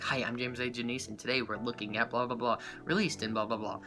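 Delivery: softly imitated mumble-along to a show intro; under the breath. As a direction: recite along quietly, as if to yourself. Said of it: "I'll, like, whisper under along my breath".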